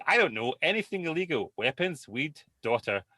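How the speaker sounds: mock fed-up mother; exasperated mum. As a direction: lecture the kid. Mum voices herself, exasperated.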